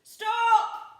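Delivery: very high, loud order; commanding stop. A narrator's reading. Handkerchief halting the pirates, loud order. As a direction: halt everyone at once. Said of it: "said Handkerchief".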